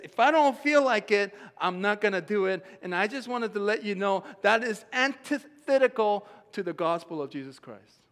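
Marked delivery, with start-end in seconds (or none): 0.0-2.7 mock whiny complaint, high and loud; a hint of the whining generation; mock lazy voice. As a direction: lightly voice the lazy spirit. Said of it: "this spirit where it says".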